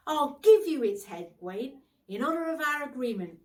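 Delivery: grand and generous offer; generous knight. Acted. Bertilac offers the boar's head.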